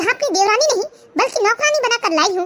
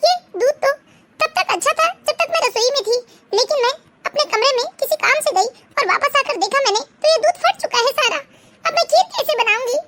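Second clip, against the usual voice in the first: tearful crying; 3 semitones higher than usual. Acted. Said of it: "ये क्यों रो रही है?".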